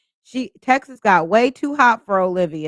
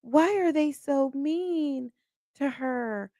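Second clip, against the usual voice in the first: puzzled retold question; 6 semitones higher, 4 dB quieter, slower than usual. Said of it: "I was like".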